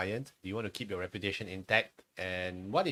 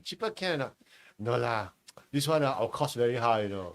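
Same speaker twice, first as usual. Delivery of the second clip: put-on Singaporean accent; 5 dB louder than usual. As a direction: haggle like a Singapore hawker. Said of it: "my durian seller keeps telling me".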